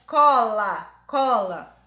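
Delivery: "cola" with an open O through the mouth; non-nasal sound. Shown as a demonstration. Teacher shows nothing felt in the nose, oral "cola". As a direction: keep "cola" clear of the nose. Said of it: "Você não sente absolutamente nada".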